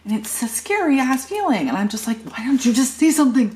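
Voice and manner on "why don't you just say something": high, loud, fast plea; exasperated outburst. Retold or imitated. Mom retelling how she reacted to her staring son, loud and high. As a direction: blurt it out, rattled and fed up.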